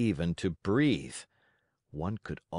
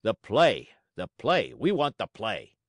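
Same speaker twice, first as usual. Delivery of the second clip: angry crowd yell; 4 dB louder than usual. Acted. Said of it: "became angry and began to yell".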